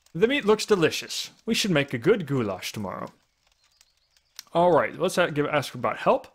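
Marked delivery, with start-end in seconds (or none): 0.1-3.1 lightly voiced old lady; a hint of an elderly woman reading. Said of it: "I should be using an old lady voice for this".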